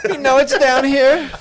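high, slow, laughing put-on accent; mock Jewish accent. Attempting a Jewish accent for Atlantis, slow and laughing. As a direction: try a Jewish accent and crack up. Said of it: "Can't do a Jewish accent".

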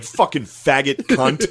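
slow, drawn-out mock curse; retold road-rage outburst. Recalling an outburst at another driver, mock angry.

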